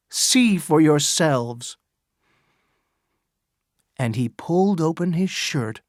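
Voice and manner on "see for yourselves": louder, raised public address; crying out to the crowd. Acted. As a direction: proclaim it to the whole crowd. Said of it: "he cried".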